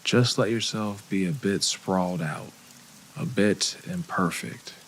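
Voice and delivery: calm meditation guide with long pauses between phrases; unhurried, measured guided-meditation voice. Acted. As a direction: ease listeners into relaxing, leaving room to breathe.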